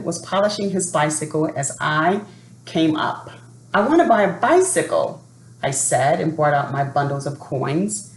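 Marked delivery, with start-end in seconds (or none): 3.7-5.2 higher, quicker eager request; eager boy. Acted. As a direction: blurt it out keenly, fast and high. Boy eagerly asks the seller.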